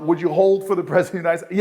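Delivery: a fast, amused parody of the operator's question; quick mocking repeat. Mayor recounting the call, a quick mocking echo of the operator. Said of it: "And I'm like".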